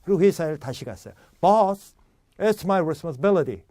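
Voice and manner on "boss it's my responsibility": loud Boss, then responsibility with BIL strong; practised responsibility, accent on BIL; stress only BIL. Acted. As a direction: call out Boss and skim responsibility around BIL. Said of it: "B만 강하게 읽어주고 나머지는 대부분 얼추".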